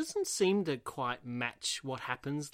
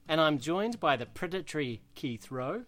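announcer intro; 3 semitones higher than usual. Acted. Podcast host opening announcement.

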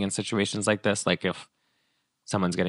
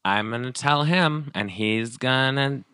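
higher, slow smug mock Reese; smug drunk Reese; 5 semitones higher, slower than usual. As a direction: play it self-satisfied and slow. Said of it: "So she's like".

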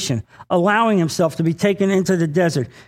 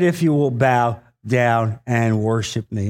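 tempting devil; 7 semitones lower than usual. Acted. Reads the devil's offer.

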